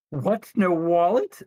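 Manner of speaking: loud, high outraged shriek; indignant cry. A narrator's reading.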